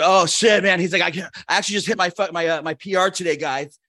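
lightly put-on excited bro. Man butts into locker-room chat to boast, bro voice. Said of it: "is that the tone of your voice".

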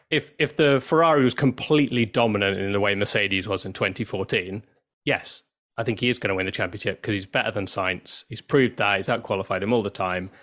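hoarse, cracking voice; strained, failing voice; losing her voice. Real, not acted. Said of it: "Sorry, I'm losing my voice".

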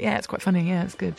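feigned casual approval; playing it cool. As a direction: act only mildly impressed. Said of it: "Try and be cool about it".

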